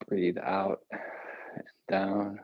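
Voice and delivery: slow drawn-out whisper. Acted. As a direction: breathe the words out slowly. Breathing cue whispered slowly.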